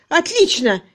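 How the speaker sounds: very high, loud, scornful exclamation; furious, drawn-out outburst; raging sarcasm. A narrator's reading. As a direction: storm with bitter mockery. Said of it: "бушевал Кирк".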